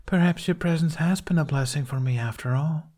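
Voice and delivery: calm and needling; taunting queen voice. A narrator's reading. Snow Queen taunting Jack.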